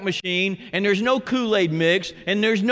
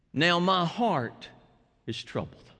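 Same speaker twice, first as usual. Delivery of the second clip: hushed troubled prayer; 5 dB quieter than usual. Acted. Quoting Jesus' troubled prayer.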